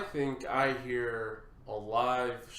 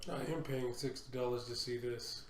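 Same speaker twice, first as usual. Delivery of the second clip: raspy, throaty voice; rough voice from allergies; smoker's rasp; 4 dB louder than usual. Real, not acted. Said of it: "I got smoker's voice today".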